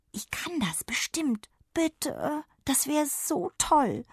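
whisper. Acted. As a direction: whisper so the parents won't hear. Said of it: "flüsternd fuhr sie fort".

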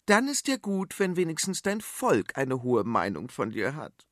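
a mild dig at her husband; a bit pointed. Acted. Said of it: "ein wenig spitz". (ein wenig spitz)

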